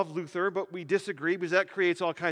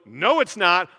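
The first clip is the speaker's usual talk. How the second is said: Zwingli retorting; 7 dB louder than usual. Retold or imitated. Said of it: "And Zwingli goes".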